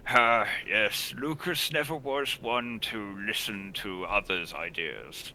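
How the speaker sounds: slow, lightly amused reply; wryly amused father. Acted. Father on his headstrong son, wryly amused. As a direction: say it slowly, with a touch of amusement. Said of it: "chuckles and nods".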